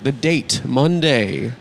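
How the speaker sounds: measured satirical news read; mock news monologue. Host opens the show with the day's news, mock anchor read.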